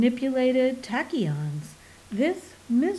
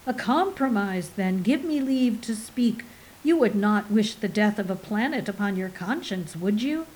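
dark tones. Acted. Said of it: "spoke in dark tones".

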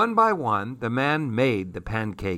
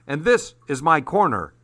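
territorial insistence; 3 semitones higher than usual. Acted. Titi defends his street corner, firm raised claim. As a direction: plant your feet on this corner. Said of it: "he demanded".

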